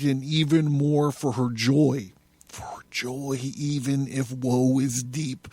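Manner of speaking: intense, theatrical recital of a prophetic text; solemn, swelling literary performance; dramatic reading. A narrator's reading. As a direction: declaim it like a poet possessed.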